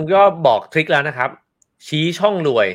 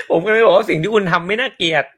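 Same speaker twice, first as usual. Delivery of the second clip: words spilling out through laughter; laughing; 4 semitones higher than usual. Real, not acted. Host reassuring his guest, laughing through it. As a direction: still laughing as he answers.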